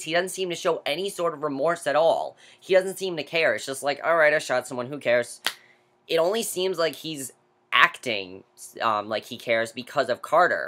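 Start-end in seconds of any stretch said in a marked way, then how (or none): none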